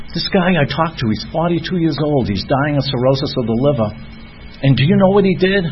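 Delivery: lightly acted shaken retelling; upset girlfriend. Hospice nurse girlfriend back from a dying patient, mock upset. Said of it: "she was all upset".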